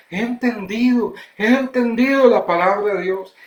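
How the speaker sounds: lifted, delighted acted exclamation; joyful realization. Simplest listener celebrating understanding God's word, joyfully. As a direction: play a simple believer rejoicing. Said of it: "había un gran gozo / gozo".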